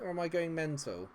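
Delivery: ordinary delivery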